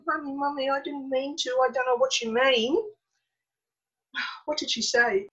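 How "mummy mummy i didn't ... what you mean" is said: put-on soft, higher-pitched little child pleading; imitated crying child. Small boy protesting to his scolding mother, imitated soft, high pleading. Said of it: "because he was crying and he's going".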